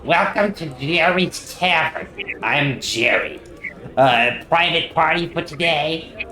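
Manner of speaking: high-pitched tavern host greeting a customer; Jerry. Acted. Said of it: "before you is a thin man with a beer gut, who says".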